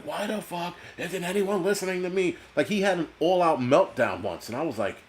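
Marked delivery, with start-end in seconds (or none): 0.0-2.4 imitating a ranting host, higher and laughing; mock Alex Jones yelling. Retelling Alex Jones screaming, a mild laughing mock yell. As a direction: laugh while mimicking his screaming meltdown. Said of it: "he's screaming and yelling".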